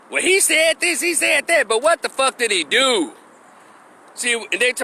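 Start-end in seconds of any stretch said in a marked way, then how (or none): 0.1-3.1 high, dismissive parroting of critics; lightly mocking the other side's argument; mocking quote. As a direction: toss off their talking points in a mock voice. Mocking critics' empty talking points.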